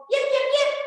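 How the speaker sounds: fox yips. Acted. Little fox calls toward the music, yipping high. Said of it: "She called".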